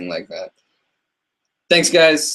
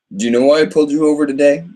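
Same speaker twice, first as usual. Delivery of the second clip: lightly voiced questioning cop, higher; louder, quicker, rising mock-official question; acting out a cop's question; 4 semitones higher, 4 dB louder, faster than usual. Streamer quoting a cop's question, lightly acted.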